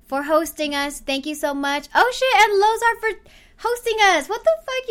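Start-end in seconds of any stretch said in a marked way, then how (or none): 2.0-4.9 put-on high, gushing Valley Girl. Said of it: "I didn't do the Valley Girl voice last".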